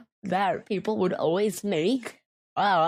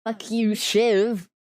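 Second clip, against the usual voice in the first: swearing; 3 semitones higher, 4 dB louder than usual. Pretend. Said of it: "swear, okay".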